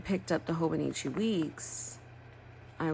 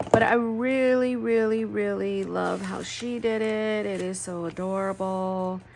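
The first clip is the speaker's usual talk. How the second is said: higher and louder, thrilled emphasis; gushing; 4 semitones higher, 6 dB louder than usual. Real, not acted. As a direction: rave about how she did it. Gushing over friend's planner.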